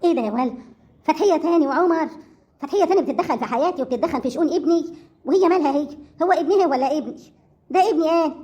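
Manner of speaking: loud, indignant questions hurled out; outraged loud protest. Acted. Mother protests that Fathiya meddles with her son, loudly indignant. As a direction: bristle with offended outrage.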